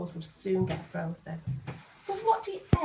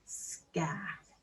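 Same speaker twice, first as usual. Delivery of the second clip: breathy unvoiced "Scarf"; whispered; 4 semitones lower, 5 dB quieter than usual. Shown as a demonstration. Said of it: "sound out scarf".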